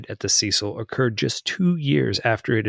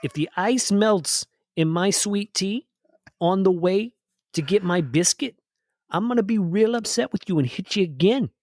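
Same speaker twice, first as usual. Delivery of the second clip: redneck driver; 7 semitones higher than usual. Pretend. Acting out an angry driver.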